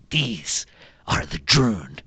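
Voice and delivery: slow, proud presentation; a hint of a kobold warlord. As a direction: present the Droon slowly and grandly. Galak Droon presents army.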